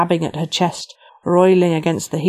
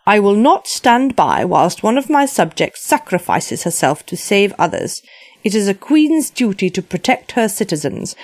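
resolute queen voice; 3 semitones higher than usual. Acted.

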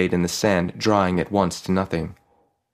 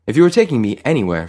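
struggling; 4 semitones higher, 5 dB louder, much faster than usual. A narrator's reading. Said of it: "Farid said, struggling".

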